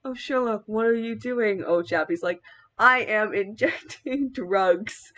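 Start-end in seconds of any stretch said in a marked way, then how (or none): 0.1-1.6 lightly put-on English accent, pitched up a little; mock English voice for a fretting friend. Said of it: "I'll put my English accent on". 2.8-5.1 slow, drawn-out mock English accent; English accent with a laugh breaking in. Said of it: "I'll put my English accent on".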